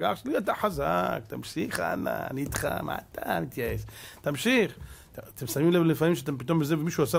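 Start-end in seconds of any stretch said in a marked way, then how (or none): 0.0-4.8 softer, close encouragement; a soft, caring push to keep going; encouraging friend. Retold or imitated. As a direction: coax him on gently like a friend. Friend encouraging a struggling brother.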